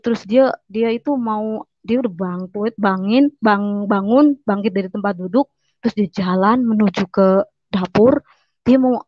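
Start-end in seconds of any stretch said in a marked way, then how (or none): none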